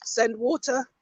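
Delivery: barely gets the words out; choking. Real, not acted. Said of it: "I'm choking".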